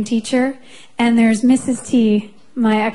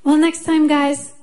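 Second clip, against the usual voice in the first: put-on light French-Canadian accent, a little higher; 4 semitones higher than usual. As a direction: imitate a French-speaking mom's accented English. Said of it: "in her little French accent".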